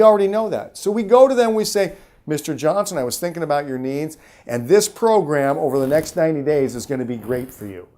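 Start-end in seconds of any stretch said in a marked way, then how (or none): 2.3-7.9 steady, assured salesman's pitch to the customer; confident pitch. Shown as a demonstration. Salesman pitching Mister Johnson with calm confidence. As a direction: tell the client what he needs, calmly sure.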